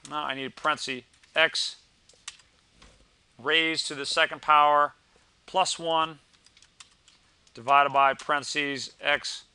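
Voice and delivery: reading out a command step by step; dictating. Shown as a demonstration. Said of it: "the form of the command for the derivative is".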